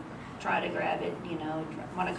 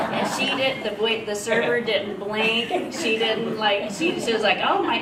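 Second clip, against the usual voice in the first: louder, higher, words through laughter; laughing while talking; 3 semitones higher, 6 dB louder than usual. Real, not acted. Retelling the server's blank reaction, laughing through it. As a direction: keep laughing as you tell it. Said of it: "I couldn't stop laughing".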